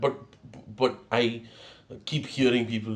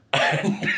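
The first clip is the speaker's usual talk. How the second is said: high helpless laughter. Real, not acted. Vlogger laughing helplessly at his embarrassing morning.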